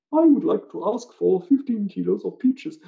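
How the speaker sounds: high, loud, slow recitation; over-earnest imitated student delivery; student making great effort. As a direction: perform carefully for the camera as a learner. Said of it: "they make this great effort".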